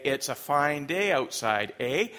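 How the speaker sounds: lightly mimicked Canadian small talk; imitated Canadian talk. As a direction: end on a rising Canadian "eh?". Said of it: "speaking like a Canadian".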